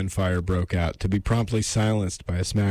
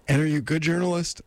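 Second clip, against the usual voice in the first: higher, quicker lady character; 8 semitones higher, faster than usual. Acted. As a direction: ask briskly in a put-on higher female voice. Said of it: "I'm doing this lady voice".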